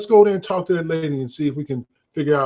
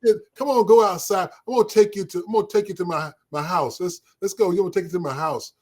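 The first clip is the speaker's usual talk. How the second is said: flirty patient, laughing; 3 semitones higher than usual. Retold or imitated.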